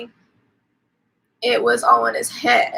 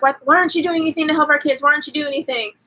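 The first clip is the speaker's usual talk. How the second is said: higher, rushed mock panic; retold flipping out; 4 semitones higher, much faster than usual. Wife begging husband to help the kids, mildly imitated flipping out. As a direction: rattle off an understated imitation of frantic pleading. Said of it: "like, flipping out".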